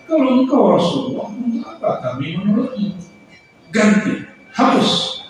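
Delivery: mocking enemies snapping at the Prophet; scornful snapping. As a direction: bark the order to erase it. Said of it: "Begitu mereka membentak dan menghina".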